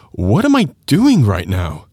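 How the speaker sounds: "doing" lifted and leaned on; stress on DOING. Shown as a demonstration. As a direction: put the weight on "doing", not on the time. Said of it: "depending on when you emphasize".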